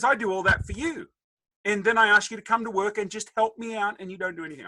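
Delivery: high-pitched mock complaint; exasperated dad. Dad asking son to help out, mock exasperation. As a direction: plead and scold as a put-upon father.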